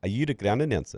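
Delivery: imitated South African cricketer, quietly confronting; South African accent. South African captain questioning the ground announcer, South African accent. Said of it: "his South African accent that you always im".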